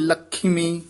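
ਲਖਮੀ with a short i after ਖ, tight; ਲਖਮੀ with sihari. Shown as a demonstration. Teacher correcting ਲਖਮੀ, short i after ਖ. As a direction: say ਲਖਮੀ as ਲਖਿਮੀ. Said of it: "ਖੱਖੇ ਦੀ ਸਿਹਾਰੀ ਵੀ ਹੈ".

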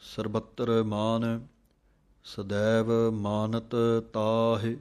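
recitation. Shown as a demonstration.

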